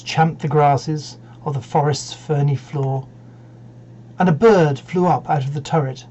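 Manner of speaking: measured, dramatic verse reading; poem recitation. Acted. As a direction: recite with deliberate pauses between phrases.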